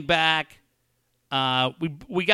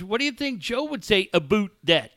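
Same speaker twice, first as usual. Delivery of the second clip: lightly put-on Toronto accent, pitched up; Canadian accent; 5 semitones higher than usual. Son mocking dad's Toronto friend, hint of Canadian accent. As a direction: mimic a Canadian saying "aboot". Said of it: "close friend who lives in Toronto".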